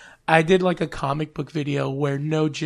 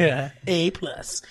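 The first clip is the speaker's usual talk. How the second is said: whispered aside; much slower than usual. Real, not acted. Joking aside.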